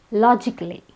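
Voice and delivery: logically said with the A dropped; logically in three syllables, no A before the L; silent A. Shown as a demonstration. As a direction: say logically as LOJ-ik-lee. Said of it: "the A is silent".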